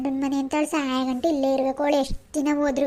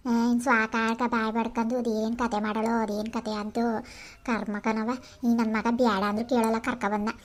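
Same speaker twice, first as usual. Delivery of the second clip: grumbling aside; 4 semitones lower, 4 dB quieter than usual. Acted. Grumbling aside about daughter-in-law's drama.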